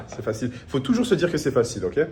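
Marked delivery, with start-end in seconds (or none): 0.0-0.5 laughing. Real, not acted.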